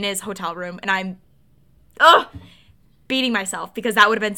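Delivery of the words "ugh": frustrated groan. Real, not acted. Regrets not going upstairs.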